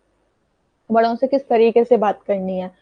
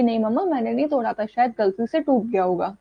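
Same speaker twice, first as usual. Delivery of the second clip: calm reply. Shown as a demonstration. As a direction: gently answer without talking back. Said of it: "आराम से उनको बोलना होता है".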